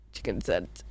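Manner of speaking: very low, rough croak; demon voice. Real, not acted. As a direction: growl it like a demon. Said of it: "You sound like an actual creature".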